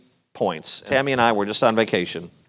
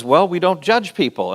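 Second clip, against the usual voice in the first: put-on higher voice with a light Indian accent; attempted Indian accent; 5 semitones higher than usual. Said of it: "Indian, Indian accent".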